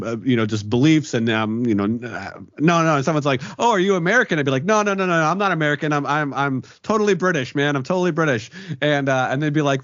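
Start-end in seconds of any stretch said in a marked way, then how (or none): 3.6-4.4 acted higher-pitched curious question. Someone asks the newcomer about nationality, curious. Voices a curious neighbour asking. 4.6-8.5 mock-insistent denial, pitched up. Newcomer insists to neighbour he's British, mock-protesting. Acts out denying being American.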